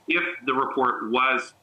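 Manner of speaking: "if" leaned on, phrase drawn out slowly; slow down and emphasize the word "if"; stress on IF. Real, not acted. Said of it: "I have to emphasize the word if".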